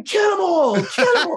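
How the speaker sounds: high hammed-up mob chant; mock crowd scream. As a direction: imitate a bloodthirsty crowd chanting, high and rising. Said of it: "they all start screaming".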